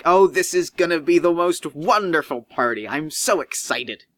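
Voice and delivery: a touch of giddy host; mildly gushing about the party. Acted. Doctor Cook promising a wonderful party, lightly giddy. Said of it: "he's real giddy".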